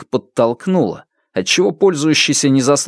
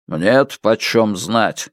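sour; slower than usual. Acted. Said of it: "бросил Фулу с кислым выражением".

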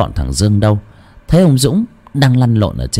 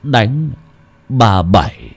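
put-on slurred, slow drunk grumble; drunken mumbling; 3 semitones higher, slower than usual. A narrator's reading. Drunk man grumbling home after drinking, slurred. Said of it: "lèm bèm trong cơn say".

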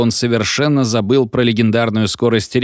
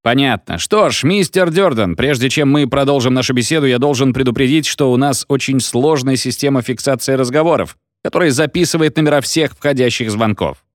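radio host voice; 4 semitones higher than usual. Acted. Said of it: "Джерри".

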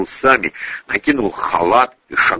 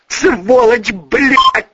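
angry cursing; 13 semitones higher, 4 dB louder, much slower than usual. A narrator's reading. Girl cursing him.

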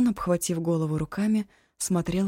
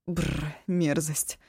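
slow shuddering brrr of disgust; much slower than usual. Acted. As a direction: shiver at the thought. Ashun disgusted.

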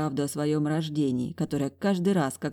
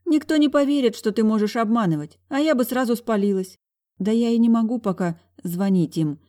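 flustered; 6 semitones higher, 5 dB louder than usual. A narrator's reading. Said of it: "сбивчиво проговорила я".

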